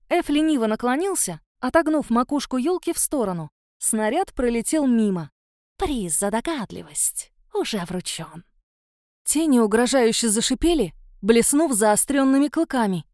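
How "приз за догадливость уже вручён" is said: low, soft, slow monster sneer; sneering creature. Acted. Shadow beast mocking the pinecone thrower, soft low sneer. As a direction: purr the mockery down low.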